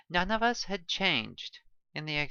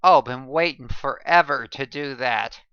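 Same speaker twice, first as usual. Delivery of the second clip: gleeful confession; 9 dB louder than usual. A narrator's reading. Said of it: "he confessed".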